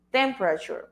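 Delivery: temperature repeated, falling, TEM-pra-chur; teacher repeating temperature for students; model pronunciation. Shown as a demonstration. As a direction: echo temperature, stress on TEM. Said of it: "Listen to the pronunciation of this".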